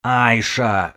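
high, desperate shout; yelling. A narrator's reading. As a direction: cry the name out. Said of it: "заорал Додо".

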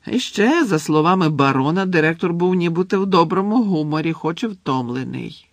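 a hint of a chatty ghost, lifted voice; lightly voiced ghost. Ghost tells Harry the headmaster is back, lightly voiced. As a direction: pass on the news as an airy character.

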